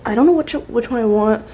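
breathless after walking; out of breath. Real, not acted. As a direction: talk between breaths. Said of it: "I'm, like, so out of breath".

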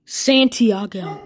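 loud falling call of a name. Acted. Player loudly calling for Santiago. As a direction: call the name across the room.

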